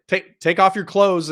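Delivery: doctor ordering a recruit to undress, in mock Asian accent. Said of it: "he's saying it with an Asian accent".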